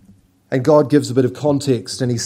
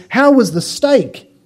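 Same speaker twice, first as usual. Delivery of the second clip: chef asking; 8 semitones higher than usual. Pretend. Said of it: "the chef turns around and says".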